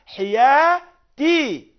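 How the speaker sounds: حياتي sung very slow, loud and high, final ي drawn long; lengthened kasra. Shown as a demonstration. Teacher stretching the kasra in حياتي. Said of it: "فعول بهذه الإطالة".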